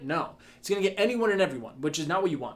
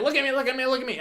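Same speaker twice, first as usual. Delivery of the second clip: mock yelling; 9 semitones higher, faster than usual. Coach imagining yelling at passers-by on the street, mock yelling. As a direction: pretend to yell for attention, pitch jumped right up. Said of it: "just start yelling".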